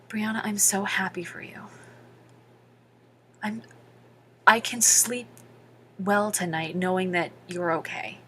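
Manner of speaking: whispered, tender words from grandpa; softly, as grandpa moved to tears; hushed grandpa. Retold or imitated. Grandfather blessing his granddaughter, whispered softly.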